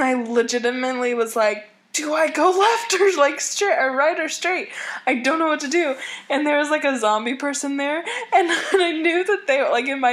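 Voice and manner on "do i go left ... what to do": high, flustered lost voice; panicked confusion. Retold or imitated. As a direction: sound totally lost and rattled. Voicing own panicked confusion.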